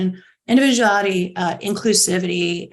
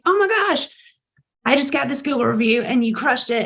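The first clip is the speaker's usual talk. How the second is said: high, delighted thank-you; excited gush; 5 semitones higher than usual. Retold or imitated. CEO recording a thank-you video for a worker, high excited gush. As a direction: burst out with excitement about the review.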